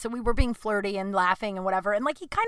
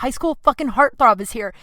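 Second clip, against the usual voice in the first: said again louder so Adam hears; louder repeat; 4 dB louder than usual. Retold or imitated. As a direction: repeat it with more push, cussing. Repeating after Adam says what.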